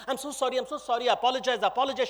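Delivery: quick, repeated apologizing; profuse apology. Acted. Tribal lady apologizing to upset princes, confused. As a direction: heap up flustered apologies. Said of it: "apologizes profusely, looking very confused".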